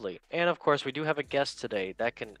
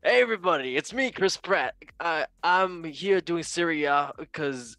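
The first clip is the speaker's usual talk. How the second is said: Chris Pratt voice. Retold or imitated. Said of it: "I forgot to do the Chris Pratt voice again".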